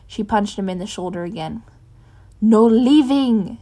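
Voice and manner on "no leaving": loud, slow hissed command. Acted. Cass hissing furiously at Bruce. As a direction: spit it out slowly, each word hard. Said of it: "she hissed".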